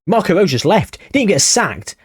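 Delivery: can't believe he just walked; stunned outburst at the news; shocked disbelief. Real, not acted. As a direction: pitch jumps up in disbelief. Manager quit, not sacked.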